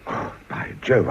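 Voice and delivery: a whispered oh by Jove as it dawns on him; dismayed whisper. Acted. Old lord remembering visitors he forgot, dismayed whisper.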